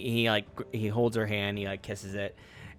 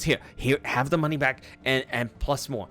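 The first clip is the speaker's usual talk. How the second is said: flustered generosity. Acted. Barkeep piles money on princess.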